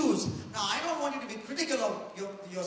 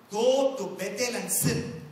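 slow, deliberate quote with a touch of irony; sarcastic; 4 dB louder, slower than usual. Retold or imitated. Preacher quoting Amos to young people, mildly sarcastic. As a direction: draw it out as mock advice. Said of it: "he's actually being sarcastic".

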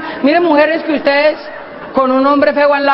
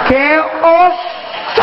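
drawn-out, mortified cry; embarrassed girlfriend; 2 semitones higher, much slower than usual. Acted. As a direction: stretch it out like she's dying of shame. Novia avergonzada. (novia muerta de la vergüenza, alargando)

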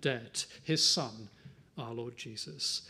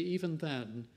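softer, slower, tender reassurance; tenderly; 2 semitones lower, 3 dB quieter than usual. Real, not acted. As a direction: gently reassure the hurting listener. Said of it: "Can I say tenderly".

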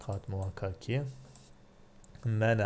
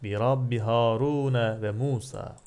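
raised, lightly acted proclamation; imitated cry out; 5 dB louder than usual. Teacher reciting the sorcerers' cry to the Lord, mildly raised voice. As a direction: call it out, half-acting the cry. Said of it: "Çığlık atarak şöyle dediler".

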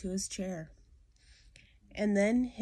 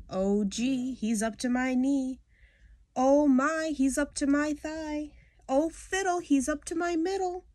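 the snake swallows you inch by inch and you get more and more frantic; rising panic; 8 semitones higher, 6 dB louder than usual. Acted. Reader voicing the victim being eaten, panic building from mild to shrieking. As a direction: panic climbing higher and louder with each line.

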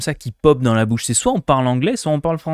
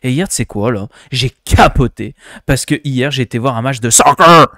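a hammed-up Québécois accent, getting louder; mock Québécois accent; 6 dB louder than usual. Shown as a demonstration. Streamer faking a Québécois accent for chat, hammed-up Québécois accent. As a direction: tell it like a Québécois bragging about soccer. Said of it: "on va le faire un québécois".

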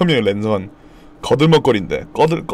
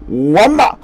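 mock cousins' yell; 5 semitones higher, 4 dB louder, slower than usual. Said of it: "잘 들어보면 오한마 같아".

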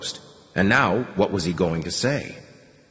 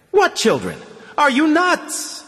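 much higher and louder, slowed in disbelief; rage; 4 dB louder than usual. A narrator's reading. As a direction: explode in furious disbelief. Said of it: "The invisible border guard flew into a rage".

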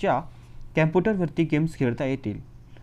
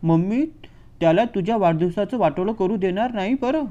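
mock-soothing mother crying out to her son; crying out to her darling; 3 semitones higher, 3 dB louder than usual. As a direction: coo and cry out over the spoiled boy. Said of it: "ओरडून म्हणाली". (मुलाला कुरवाळत ओरडणारी आई)

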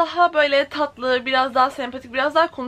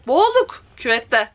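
laughing; 4 dB louder than usual. Real, not acted. Reading while laughing.

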